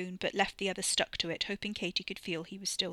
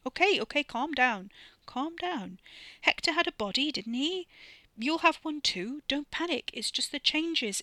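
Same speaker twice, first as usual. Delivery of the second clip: high, loud, hurried-to-soothe pleading; anxious calming, high and insistent; urgent reassurance; 7 semitones higher, 4 dB louder than usual. Acted. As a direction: talk someone down from panic, voice pitched right up. Soothing someone screaming in panic.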